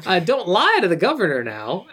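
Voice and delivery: a light comic actor impression; half-committed celebrity imitation; Don Knotts. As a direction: slide slightly into an imitation. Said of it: "do a Don Knotts impression".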